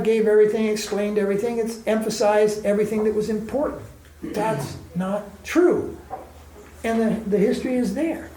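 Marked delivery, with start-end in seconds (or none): 4.2-6.0 slow firm denial. Real, not acted.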